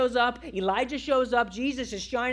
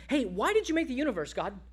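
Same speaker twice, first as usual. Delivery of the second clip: quick, higher, casual questioning; curious questioner; 4 semitones higher, faster than usual. Acted. Someone asking God why he made the universe, casually curious. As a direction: toss it up lightly like a casual query. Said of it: "If you were to ask".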